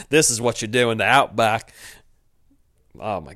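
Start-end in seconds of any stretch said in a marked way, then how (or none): 0.1-1.7 bad mock Australian, a bit louder; hammed-up Australian accent. Host as Philip boasting of the outback in a mock Australian accent. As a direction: play an outback bloke lightly. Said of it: "what is this accent?".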